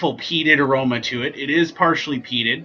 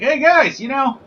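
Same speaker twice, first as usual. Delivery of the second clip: high-pitched mock Australian dairyman; bad Australian accent; 11 semitones higher, 4 dB louder than usual. Dairy company pitching to the guys, badly faked Australian accent. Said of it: "I can't do an Australian accent".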